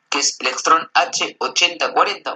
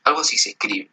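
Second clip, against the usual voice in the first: normal talking voice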